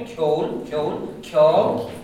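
"kjol", repeated as a pronunciation model; rest-of-country pronunciation. Shown as a demonstration. Teacher shows class how the rest of the country says it, pronunciation demo. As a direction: say "kjol" with a k-y glide and open o. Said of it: "Those in the rest of the country".

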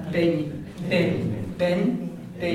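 bin with a slender b and a y-tinged n, the y never fully said; slender Irish bin. Shown as a demonstration. Teacher drilling the Irish word, slender Irish bin. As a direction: repeat bin slowly apart, softening the final n. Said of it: "you're not saying the Y".

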